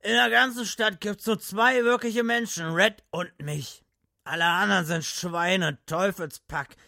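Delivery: put-on high, loud drunken rant. Drunk Gatlin rants.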